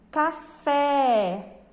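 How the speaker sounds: "Café" with a long, open final é; teacher's model "Café", final syllable stressed and wide open; open stressed vowel. Shown as a demonstration. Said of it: "A pronúncia deve ser aberta".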